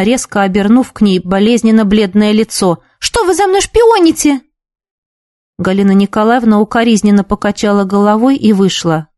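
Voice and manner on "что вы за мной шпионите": high, shrieking outburst; hysterical cry. A narrator's reading. Girl screaming at the caring teacher, hysterical. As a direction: snap back hysterically. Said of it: "истерически крикнула Нина".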